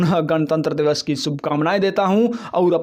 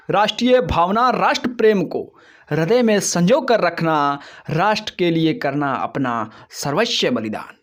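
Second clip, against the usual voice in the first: proud recited patriotic verse; poem recitation. Acted. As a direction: declaim the lines with pride.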